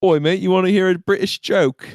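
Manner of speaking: chatty put-on British accent; joke-telling stable boy. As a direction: play a matey British pub joker. Player voices British stable boy.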